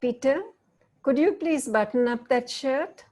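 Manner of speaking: sweet but tight. Shown as a demonstration. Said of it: "What tone are you all hearing?".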